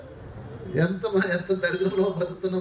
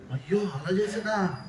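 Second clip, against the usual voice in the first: mock sympathy; slower than usual. Gossiping neighbour fakes sympathy.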